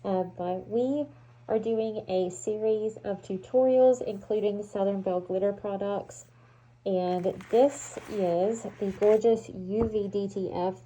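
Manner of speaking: muffled through a respirator; talking through a face mask, muffled. Real, not acted. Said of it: "my voice is already muffled".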